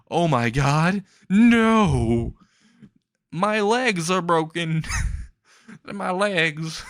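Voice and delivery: high-pitched mock wail, not full volume; hammed-up cry of agony, drawing out the words; mock scream. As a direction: act out a man screaming over an injury. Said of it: "screaming at the top of his lungs".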